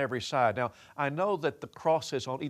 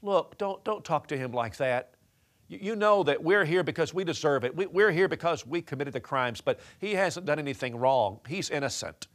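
louder, higher scolding at first, then settling; rebuking; 3 semitones higher, 7 dB louder than usual. Acted. Second thief rebuking the mocking thief, stern. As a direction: scold the other man sharply. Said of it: "starts to rebuke him".

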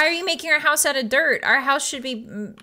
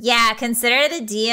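put-on drawling Valley Girl agreement. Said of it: "Valley Girl accent".

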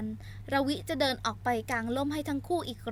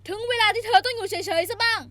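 higher, loud male roar; snarling at her; 8 semitones higher, 9 dB louder than usual. Acted. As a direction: bark her down hard. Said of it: "ไอซ์หันไปตะคอกใส่เธอ".

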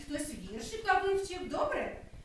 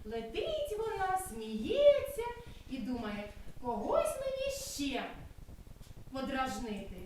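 lively, sing-song storytelling voice; story narration for children; 2 semitones higher than usual. Acted. Kindergarten teacher reading a cloud story aloud to children. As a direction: tell the tale as if to small kids.

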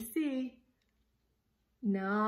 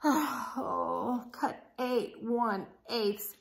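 weary grumble; much slower than usual. Acted. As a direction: sigh then slow, whining grumble. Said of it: "he grumbled".

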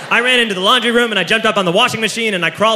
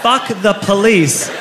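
slow drunken mock yell; 3 semitones higher than usual. Drunk kids chanting at the police officer, slow mock yell. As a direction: chant it slowly like a drunk kid.

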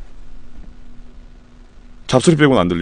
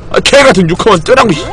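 cursing under breath; 7 semitones higher than usual. Real, not acted. Bad gacha roll while streaming.

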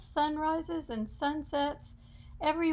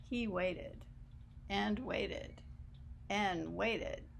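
hushed suspense; 3 semitones lower, 7 dB quieter, slower than usual. A narrator's reading. Suspense, waiting drawn out.

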